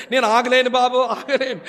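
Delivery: hammed-up lament protest; mock wailing. Preacher mimics widow refusing to stop crying, mock wailing. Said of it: "రద్దాంతం చేసి".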